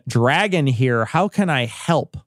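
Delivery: slow, lightly voiced phone greeting; a hint of a self-serious office guy. Imitating the coworker Dragon answering the phone, slowly. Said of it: "he answers the phone".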